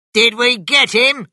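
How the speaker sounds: very high, loud, eager shouting. After the gunshots, Bean calls to the other farmers, shouting. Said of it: "shouted Bean".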